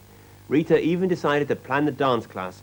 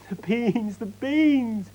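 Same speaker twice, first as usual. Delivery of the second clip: yelling out; 10 semitones higher, much slower than usual. A narrator's reading. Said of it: "yelled out to him".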